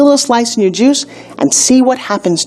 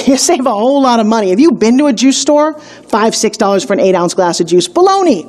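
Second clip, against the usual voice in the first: infomercial pitch. Acted. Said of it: "did I start to sound like an infomercial".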